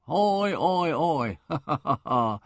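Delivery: hammed-up chortle with a yodel lilt; gleeful yodel. A narrator's reading. Weldon gleefully laughing over the number plate. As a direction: crow the "oi, oi" then laugh it off. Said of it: "Mister Weldon yodeled gleefully".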